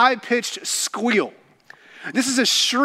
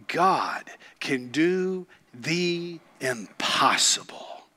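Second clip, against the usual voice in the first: slow, soft whisper, lower; 5 semitones lower, 6 dB quieter, slower than usual. Real, not acted. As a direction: whisper the truth reverently. Intimate aside in sermon.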